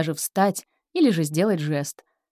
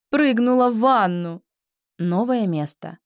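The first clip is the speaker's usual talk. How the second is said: ordinary talk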